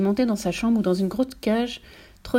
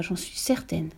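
softer, low aside; mild stage whisper; 3 semitones lower, 7 dB quieter, slower than usual. A narrator's reading. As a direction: confide it under the breath. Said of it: "chuchota Mathilda".

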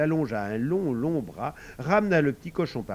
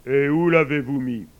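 kindly; 3 semitones higher, 11 dB louder than usual. A narrator's reading. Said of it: "leur demanda avec bonté".

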